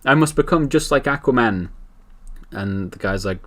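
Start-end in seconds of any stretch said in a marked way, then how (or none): 0.0-1.7 whiny jealous rant. Retold or imitated. Villain complains to butler.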